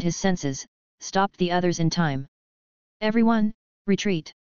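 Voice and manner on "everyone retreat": commanding tone. A narrator's reading. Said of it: "he ordered in an unquestionable tone".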